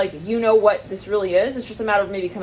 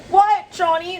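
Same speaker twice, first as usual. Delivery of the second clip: high, loud mock outcry; mock shock; 10 semitones higher, 4 dB louder, slower than usual. Startled person confronting Johnny, in mock shock. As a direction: exclaim it as a high-pitched caricature.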